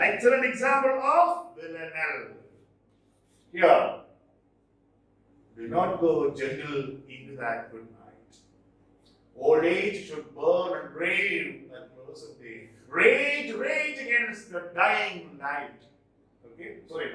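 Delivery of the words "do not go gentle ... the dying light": measured, slow poetry reading, rising in force; poem recitation. Acted. Teacher reciting a famous poem to students, poem recitation. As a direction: recite it deliberately, lifting on the repeated word.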